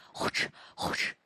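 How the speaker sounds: breathy panting huff of a big dog. Acted. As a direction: pant like a huge dog. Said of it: "冲着点点喘气". (大狗呼哧呼哧地喘气)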